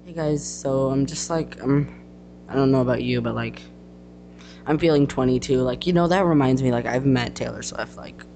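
lightly voiced bragging valley girl; name-drop with lazy likes. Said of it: "This is my brag character".

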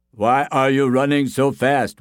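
puzzled villager call; curious villager. Acted. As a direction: call out to the runner. Villagers question the fleeing man.

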